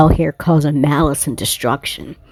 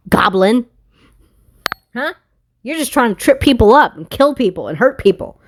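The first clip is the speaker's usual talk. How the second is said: higher, heated scolding; 4 semitones higher than usual. Real, not acted. Telling off the goblin energy during her reading, scolding. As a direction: tell the goblin off, fed up.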